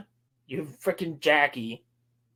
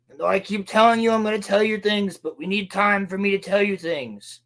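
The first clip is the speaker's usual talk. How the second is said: higher-pitched parody of a stalling character; lightly mock his long-winded excuses in a raised pitch; mocking Soul; 5 semitones higher than usual. Soul stalling instead of telling her things, lightly mocking parody. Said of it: "Soul's like".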